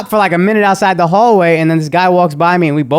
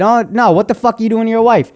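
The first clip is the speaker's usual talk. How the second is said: pressing a retold challenge, slightly raised pitch; retold bold challenge; 4 semitones higher than usual. Neighbor confronting a husband at his door, bold retold challenge. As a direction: replay standing firm, insisting on an answer. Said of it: "So I'm bold now".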